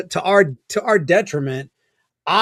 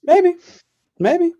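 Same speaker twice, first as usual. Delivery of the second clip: mock wonder; 12 semitones higher, 4 dB louder than usual. Teasing aliens founded America.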